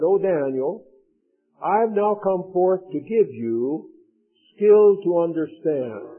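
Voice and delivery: steady, solemn Bible reading; scripture reading to a congregation. Acted. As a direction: read the angel's message with weight. Reads Daniel chapter nine.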